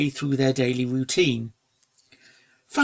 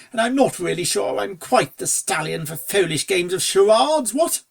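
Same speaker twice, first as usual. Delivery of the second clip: a hint of a jaunty upper-class gent; breezy toff, ending on a high what; lightly voiced aristocrat; 4 semitones higher than usual. Fancy Pants voiced.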